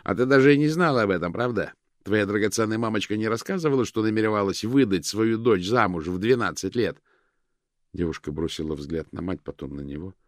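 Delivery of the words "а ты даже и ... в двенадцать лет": hysterical fast taunting rant; fast, mocking, unhinged; wild unhinged ranting. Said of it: "Лютер истерически расхохотался".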